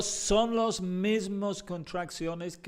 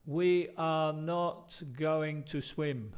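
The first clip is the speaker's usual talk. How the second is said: slow careful example; much slower than usual. Shown as a demonstration.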